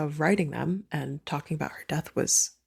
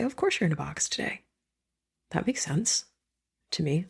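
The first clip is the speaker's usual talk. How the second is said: soft reassuring whisper; 3 dB quieter than usual. Shown as a demonstration. To a grieving friend, a soft gentle reassurance. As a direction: breathe it gently, almost a whisper. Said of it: "to say".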